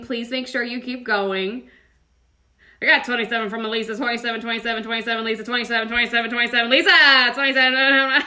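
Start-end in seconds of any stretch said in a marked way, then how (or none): 2.8-8.2 fast auctioneer chant. Pretend. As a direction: rattle off bids like an auctioneer. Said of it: "You do a good auctioneer impression".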